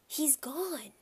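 breathy unvoiced whisper. A narrator's reading. Peter whispering to Dad that Fudge is missing. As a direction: whisper the alarm urgently. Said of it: "I whispered to my father".

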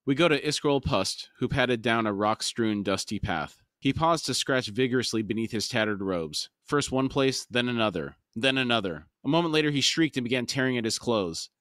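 measured audiobook storytelling; story narration. A narrator's reading. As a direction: read the passage aloud as a storyteller.

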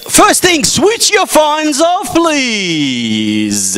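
high, projected order to the room; calling out. Real, not acted. Host telling audience about phones, calling out.

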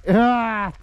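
sudden high yelp; demo shout. Shown as a demonstration. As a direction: let out a quick shout to show it. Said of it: "diye bağırsan".

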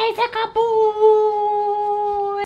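squeaky praising a dog. Real, not acted.

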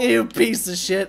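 slow, high, loud insult; drawn-out exasperated yell; angry cursing. Real, not acted. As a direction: spit the insult out at a teammate. Cursing the same teammate.

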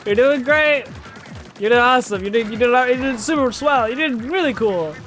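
high-pitched, cooing reassurance; consoling encouragement. Pretend. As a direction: cheer up a sad little friend. Consoling a game character.

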